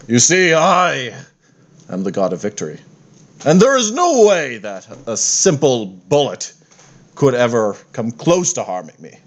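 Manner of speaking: lightly voiced pompous war god; boastful god voice. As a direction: announce yourself as an unbeatable god.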